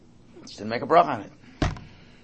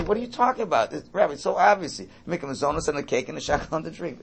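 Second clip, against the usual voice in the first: scoffing; 3 semitones higher than usual. Retold or imitated. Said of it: "I would say".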